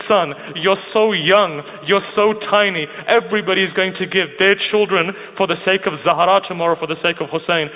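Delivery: mildly plaintive retelling of a weeping mother; retold tearful mother. Mother crying to her baby son, retold tearful lament. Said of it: "as she begins to cry".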